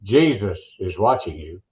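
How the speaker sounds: a hint of a spooky parrot, slowed down; slow eerie parrot. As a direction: drag the warning out like a watchful bird. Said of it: "this parrot says".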